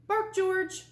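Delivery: mother telling her puppy to bark; mother's command. A narrator's reading. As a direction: call it out like a patient mom. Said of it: "said George's mother".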